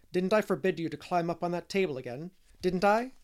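high, loud demanding rebuke; stern, indignant questioning; scolding. A narrator's reading. Marilla scolds disobedient Davy.

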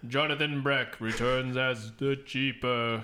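slow, lightly voiced spooky narrator; a hint of the ominous newsreader; spooky news narrator. Co-host shows the guy who narrates spooky news, spooky narration. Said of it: "like the guy who narrates spooky news".

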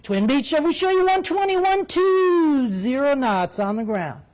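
high, slow, lilting controller voice; sing-song controller voice. Retold or imitated. Controller flattering a Twin Beach pilot, high sing-song voice. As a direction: treat him like Air Force One. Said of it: "talk to him like he's Air Force One".

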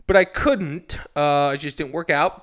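normal talking voice

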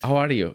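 "How are you" with the H dropped. Shown as a demonstration. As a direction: ease into "How" without its H. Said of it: "that's how it feels more comfortable to me".

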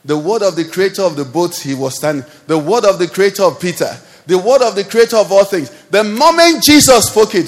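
rising from firm to loud, pressing each repeat of word; building proclamation. Real, not acted. Preacher to the congregation, swelling from firm to loud. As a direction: build the repeated line into a ringing cry.

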